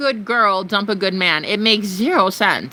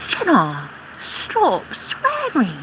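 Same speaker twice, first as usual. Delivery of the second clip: mocking prissy troll; 3 dB quieter, slower than usual. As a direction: sneer it like a scandalised prude. Mocking scandalised commenter.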